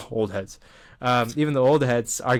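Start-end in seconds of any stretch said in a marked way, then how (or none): 0.1-0.6 soft chuckle through the words; laughing. Real, not acted. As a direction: laugh it out quietly. Laughing repeat of own phrase.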